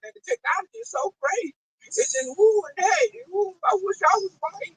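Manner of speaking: high, airy mocking voice of a gushing fan; imitating an excited tech lover. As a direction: gush like a dazzled fan, mocking them.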